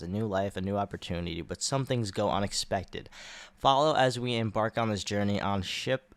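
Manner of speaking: lightly dramatic story-trailer read; synopsis read. Acted. Host reading the series synopsis, mild trailer voice. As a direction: read it like a show teaser.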